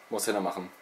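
normal talking voice

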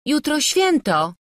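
high, loud, slow pleading; timidly plead, drawing it out; timid reminder. A narrator's reading. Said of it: "przypomniała nieśmiało".

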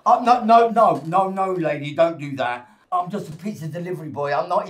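alarmed comic Italian pizza man; fake Italian accent. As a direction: protest in a cheesy Italian accent. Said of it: "They just forced me to do the accent".

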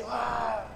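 soft rushing gust noise; imitated wind howl. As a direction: whoosh like the wind. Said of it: "Cuando el viento dice".

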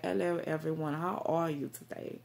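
put-on British greeting; British accent. Shown as a demonstration. Greeting viewers on camera, British accent. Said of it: "talk in my British accent".

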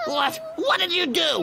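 sharp high startled what; shocked. Acted. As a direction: jolt up in shock. Sudden shock at the scene.

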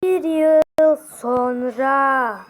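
very drawn-out announcer delivery; time-skip announcement. A narrator's reading. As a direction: stretch each word like a title card.

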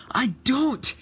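high, loud squabbling shout; indignant denial. Acted. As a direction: deny it loudly in a high voice. Quarrel, Luke denies it.

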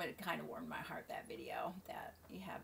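whispered, tender and hushed; touched whisper about the video; soft whisper. Real, not acted. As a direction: let it fall to a whisper. Tender aside, voice drops.

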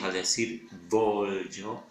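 voglio said slowly with a short B and clear gli; slow voglio, marking the gli; careful voglio. Shown as a demonstration. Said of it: "estoy pronunciando la B corta". (voglio lento, B corta y gli clara)

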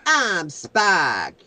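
put-on high kid voice with Aussie twang; little Aussie kid voice. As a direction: play a cheeky Aussie boy. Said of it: "a little Aussie kid".

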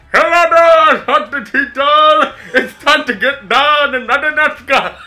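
chirpy royal showman, pushed forward; King Julien voice. Pretend. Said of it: "When you're King Julian".

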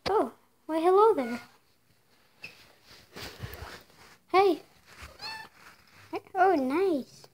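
greeting a cat. Real, not acted. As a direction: coo a greeting at a found cat. Greeting a kitty they found.

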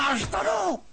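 sharp protest. Acted. Snaps at her mockery.

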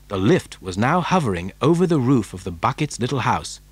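ordinary delivery, nothing marked

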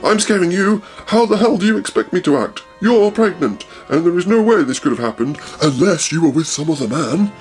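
hammed-up jealous yell; screaming. Husband accusing wife of cheating, mock yelling. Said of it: "Raoul was screaming at Christine".

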